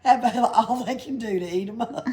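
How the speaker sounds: high, loud, giggling Pippi voice; giggling storyteller; laughing through it. Acted. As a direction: spin the tall tale through laughter. Pippi's tall tale, laughing.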